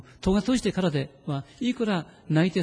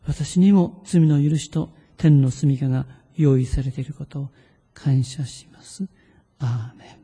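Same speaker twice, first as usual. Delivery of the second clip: read-aloud prayer. Shown as a demonstration. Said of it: "声に出して意識して読んでみましょう".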